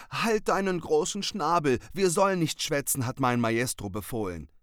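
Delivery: high, loud, bossy little cat. Acted. Young cat bossing the raven around, high and loud. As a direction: puff yourself up and snap at him.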